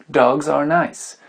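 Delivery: "Dogs are nice" spoken slowly and clearly; slow English model. Shown as a demonstration. Teacher to French learners, slow clear English. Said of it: "vous allez dire dogs".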